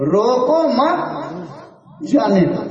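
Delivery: rising "مت", falling "جانے دو"; pause after مت. Shown as a demonstration. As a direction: link "مت" back to "روکو", pause, release "جانے دو". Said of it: "ادھر روکو سے لگا دو".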